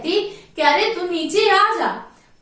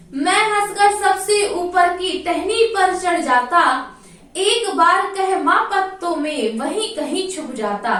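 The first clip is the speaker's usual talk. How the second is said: sing-song poem recital, lightly chanted; poem recitation; 2 semitones higher than usual. Acted. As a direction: recite the verse to the class in a lilting chant.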